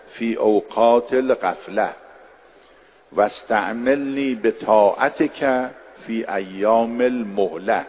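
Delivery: slow, drawn-out chanted supplication; prayer recitation. Acted. Preacher reciting the prayer to the congregation, slow and solemn. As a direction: intone the Arabic prayer slowly and devoutly.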